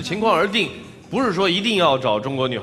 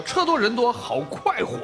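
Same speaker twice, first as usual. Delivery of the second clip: laughing; 8 semitones higher, slower than usual. Retold or imitated. Host quotes guest, amused.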